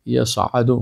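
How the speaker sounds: یصعد with an emphatic sad and a throaty ain; correct Arabic ain. Shown as a demonstration. Teacher to students, carefully pronouncing the ain in یصعد. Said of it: "تلفظ درست عین باید یاد بگیرید".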